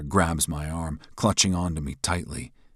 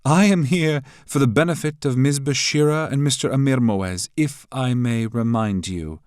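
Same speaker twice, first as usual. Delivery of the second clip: composed, higher and louder, unhurried close; coolly; 9 semitones higher, 7 dB louder than usual. A narrator's reading. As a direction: say it with cool poise. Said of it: "Jamila Hara says coolly".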